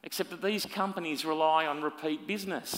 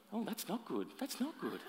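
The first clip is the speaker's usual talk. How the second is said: dismayed oh; 6 semitones higher, 10 dB quieter than usual. Acted. Dismayed reaction to report card.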